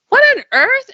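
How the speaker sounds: high, loud "What on earth?" with a rising end; astonished cry. Retold or imitated. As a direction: exclaim "What on earth?" in disbelief. Amazed as fever suddenly drops.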